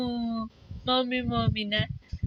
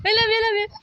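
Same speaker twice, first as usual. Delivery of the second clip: higher and louder, bouncy and eager; gleeful baby talk; 5 semitones higher, 5 dB louder, much faster than usual. Shown as a demonstration. Parent eagerly coaxing baby to say it, louder. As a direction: cheer the words out to coax the baby. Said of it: "parent coaxing baby to repeat".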